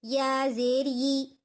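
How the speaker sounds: slow, even syllable chant; sing-song recitation of Arabic spelling; Quran reading drill. Shown as a demonstration. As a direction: spell each letter out like a Qaida teacher.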